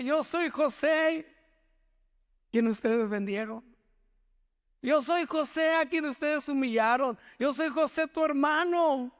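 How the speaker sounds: a touch of emotional José, slow; José revealing himself. Acted. José tells his brothers, mildly moved. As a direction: voice José's tearful reveal, lightly.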